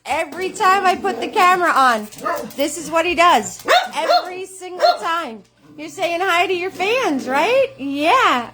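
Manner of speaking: gushing to an excited puppy; doggy talk. Real, not acted. Talking to her excited dog.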